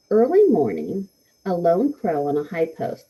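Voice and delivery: measured haiku recital with pauses between lines; poem reading. Acted. Teacher reads a haiku to the class, measured poem reading.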